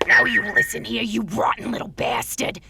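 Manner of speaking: forceful, building tirade; angry rant. Acted. Organist telling a boy life will chew him up, angry rant.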